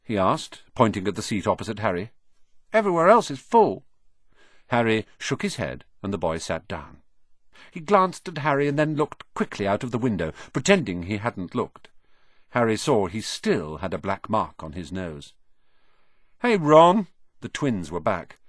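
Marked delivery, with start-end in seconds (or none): 2.7-3.8 put-on high, hesitant young boy; shy boy voice. A narrator's reading. Ron explains. 16.4-17.1 loud, high, bouncy call; cheerful twin calling. A narrator's reading. Twins call out.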